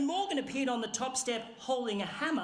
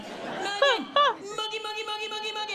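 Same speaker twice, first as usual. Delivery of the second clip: high, rapid repeated pet call; calling a cat; 10 semitones higher, 5 dB louder than usual. Retold or imitated. Storyteller summoning Morgan like a cat for its dinner, cat-calling. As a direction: coax a cat in with a nickname. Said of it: "Like I was calling a cat for its dinner".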